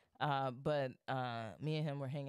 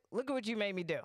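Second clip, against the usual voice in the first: higher, hammed-up accusing cry; indignant blame; 6 semitones higher, 4 dB louder, much faster than usual. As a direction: throw the blame on him, mock outraged. Acts out blaming roommate after smash.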